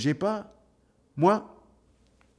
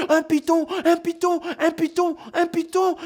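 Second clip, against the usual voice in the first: crowd screaming. Acted. Village crowd screaming alarm.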